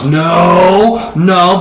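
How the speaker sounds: put-on drawn-out, commanding little-kid no; like her owner. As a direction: imitate a child copying the dog's owner. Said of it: "she said it like her owner".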